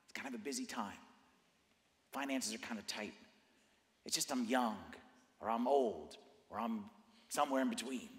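hesitant excuse-making. Acted. Worshipper talking himself out of it, hesitant. Voicing inner excuses to delay.

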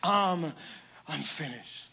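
faint, fading mock surrender; barely breathed, defeated I'm finished; weak I'm finished. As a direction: let it die away limply. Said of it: "he didn't say".

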